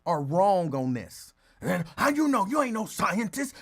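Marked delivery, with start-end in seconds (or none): 2.0-3.5 higher mock challenge; mocking critics. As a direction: throw it out as a scoffing critic.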